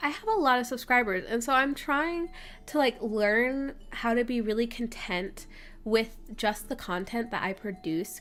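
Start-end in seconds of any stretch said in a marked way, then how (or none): 0.0-1.2 quick, upbeat, proud and confident delivery. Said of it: "But other days I'm like".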